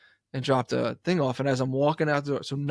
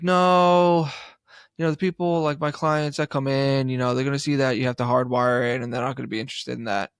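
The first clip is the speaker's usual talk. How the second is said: lightly mocked dealer; 3 dB louder than usual. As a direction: mimic her explaining, a bit condescending. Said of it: "and she was like".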